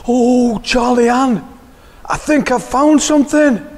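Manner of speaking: loud, high burst of discovery; surprised cry. Acted. Misa calls Charlie Ann over, surprised and loud. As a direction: call out the find in surprise. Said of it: "a cry of surprise".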